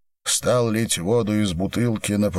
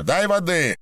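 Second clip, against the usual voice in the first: shout; 11 semitones higher than usual. A narrator's reading. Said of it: "крикнул ей Виноградов".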